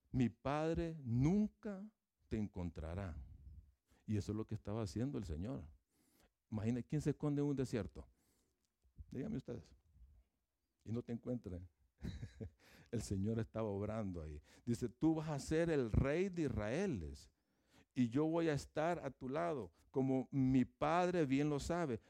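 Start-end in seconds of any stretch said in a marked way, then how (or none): 0.1-3.2 slow reassurance. Acted. Jonatán calma a David escondido, lento y firme. 14.9-22.0 fervent promise. Acted. Jonatán le promete a David que será rey, proclamando con fervor.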